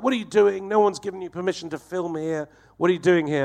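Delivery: retold headmistress scolding an intruder; angry headmistress. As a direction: mimic a cross headmistress demanding answers. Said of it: "She's fucking so angry".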